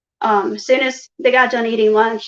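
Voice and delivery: ordinary talk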